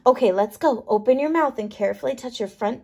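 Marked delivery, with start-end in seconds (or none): none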